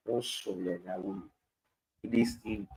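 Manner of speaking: hushed whisper, as if not to wake him. Pretend. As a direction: whisper so the sleeper stays asleep. Jesus asleep in the storm.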